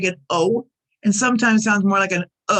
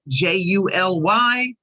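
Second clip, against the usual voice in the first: slow spelling. Shown as a demonstration. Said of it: "You see there".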